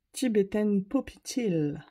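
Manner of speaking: slow, hammed-up British accent on the colour name; mock British accent. Vlogger reading the powder colour name to viewers, in a mock British accent. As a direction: put on a posh English accent for fun. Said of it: "Avec mon accent so British tea".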